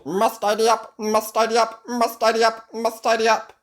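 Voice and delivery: high, loud frantic robot chant; out-of-control robot. A narrator's reading. Robot running wild in the castle, high frantic chant. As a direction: repeat it relentlessly like a malfunctioning machine. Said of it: "the robot gets out of control".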